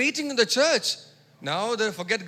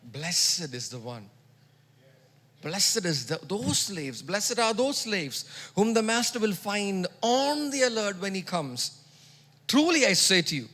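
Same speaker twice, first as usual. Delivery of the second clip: scripture reading; slower than usual. Retold or imitated. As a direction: read it slowly and reverently. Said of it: "reading the parable".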